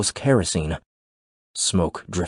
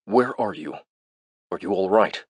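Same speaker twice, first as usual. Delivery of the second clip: calm thin voice; 3 dB quieter than usual. A narrator's reading. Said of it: "spoke in a calm, thin voice".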